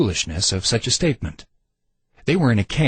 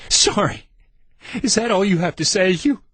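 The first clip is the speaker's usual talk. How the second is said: scornful scoff; 10 semitones higher than usual. A narrator's reading. Randy scoffs after laughing bitterly.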